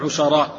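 "عشراء" said 'ushara', u then a, long final a; careful vowelling. Shown as a demonstration. Reader spelling out the hadith's word, careful vowelling. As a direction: say "عشراء" with damma, fatha and a lengthened ending. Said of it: "بضم العين وفتح الشين وبالمد".

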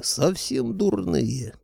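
high, slow outraged cry; head shocked that anyone would insult Koschei; outraged disbelief. Acted. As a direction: drag it out, scandalised.

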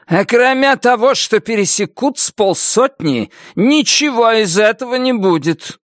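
grumbling agreement from the ranks; gruff convict. A narrator's reading.

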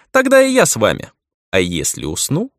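put-on teasing young girl; playful elf girl.

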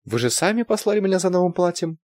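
high puzzled protest; surprised. A narrator's reading. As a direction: sound taken aback. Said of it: "удивилась девушка".

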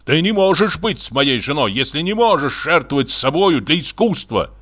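touch of wronged-artist anger; indignant painter. Acted. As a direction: reproach with mild indignation. Painter berates his wife.

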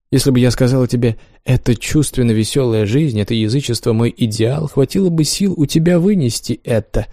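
a lightly voiced teasing lover; Wanda voiced. Wanda's lines in reading.

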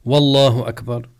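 والله opened with a stressed, loud "wa"; added initial waw. Shown as a demonstration. Teacher shows forbidden addition, leading wa on والله. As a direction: put "wa" before the name: wallahu akbar. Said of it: "لا يزيد واوا قبل لفظ الجلالة".

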